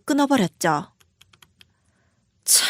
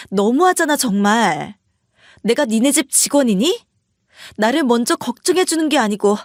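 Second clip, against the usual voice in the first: a touch of restrained anger, spoken through gritted teeth; 2 semitones higher than usual. Retold or imitated. Wife finally telling her husband what she really thinks, through gritted teeth. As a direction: hold back the anger and push each word out. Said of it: "이를 악물고 이야기를 했어요".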